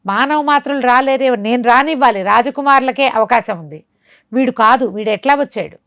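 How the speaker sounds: startled, rising alarm in the voice; a sorcerer shocked someone slipped in; astonished sorcerer. Acted. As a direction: voice jumping up in disbelief. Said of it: "ఆశ్చర్యపోయాడు".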